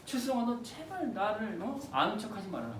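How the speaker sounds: hushed last words, lightly acted; dying brother's plea. Brother to sibling just before execution, hushed plea. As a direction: plead softly as if leaving a final wish. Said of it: "그 직전에 남긴 유언".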